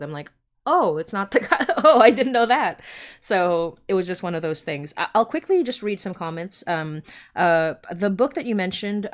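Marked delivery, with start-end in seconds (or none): 0.7-2.8 louder, higher, laughing mock surprise. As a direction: play innocent shock with a laugh.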